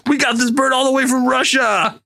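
Justin Hammer. Retold or imitated. Hammer boasting to Vanko about the bird, a shouted brag. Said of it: "a really good line reading on my part".

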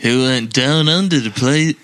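jokey attempt at Liverpool; badly faked Liverpool accent. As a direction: botch a Liverpool accent for laughs. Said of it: "that's my Liverpool accent".

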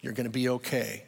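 a hint of hollow pity; mildly voiced condescending sympathy; mock pity. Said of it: "That's pity".

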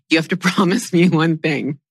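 trying not to laugh. Real, not acted. Business partner setting terms for the assistant, retold through stifled laughter. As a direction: laugh breaking into the words. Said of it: "trying to say this without laughing".

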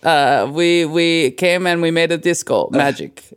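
put-on hammy movie-villain German accent; a singer's German accent. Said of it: "he sounded like when you do a German accent".

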